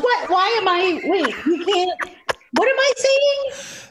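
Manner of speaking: can't believe what you're reading aloud; retold disbelief. Narrator reading genital warts script, stunned disbelief. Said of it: "but I'm like".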